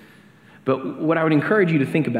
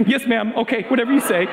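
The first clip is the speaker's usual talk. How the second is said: put-on much higher, instantly meek little boy; meek kid; 11 semitones higher than usual. Scolded boy giving in to his friend's mom, high and meek. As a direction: cave in fast, small and obedient. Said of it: "immediately I'm like".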